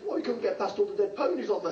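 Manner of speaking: laughing punchline. Real, not acted.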